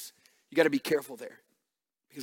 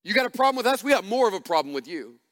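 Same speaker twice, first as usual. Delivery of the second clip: mock church contempt; 4 semitones higher, faster than usual. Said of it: "My generation in the church tried this".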